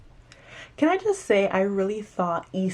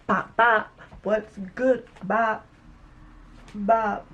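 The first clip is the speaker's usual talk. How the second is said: mock hitting sound; 3 semitones higher, slower than usual. Shown as a demonstration. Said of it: "you have to put your back into it".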